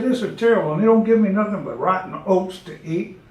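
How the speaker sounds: put-on an overworked old horse airing grievances; talking horse.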